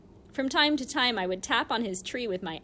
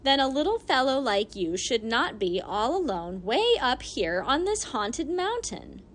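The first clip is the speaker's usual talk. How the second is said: a lightly voiced old lady, a touch scolding; an old woman chiding gently; 2 semitones higher than usual. Old lady warns the boy about the mountain, lightly voiced.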